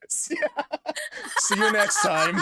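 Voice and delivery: very high squeaky sign-off; squeaky goodbye. Pretend. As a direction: chirp a silly high goodbye. Silly sign-off voice.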